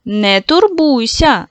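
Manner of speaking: slow, soothing reassurance; calm the little boy down gently; reassuring. Acted. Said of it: "заспокоїла читалочка". (читалочка заспокоює хлопчика повільно й лагідно)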